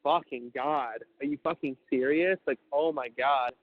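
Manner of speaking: slow, weighted shock; reliving the shock, slowly; retold stunned disbelief. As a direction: draw the words out in disbelief. Retold reaction to friend's death.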